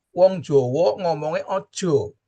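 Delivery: a light Javanese lilt on Wong Jowo ngomongnya ojo; slow, gently sung Javanese example; Javanese phrasing. Retold or imitated. Teacher voicing a Javanese speaker for students, light Javanese accent. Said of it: "orang Sunda nyarisnya ulah".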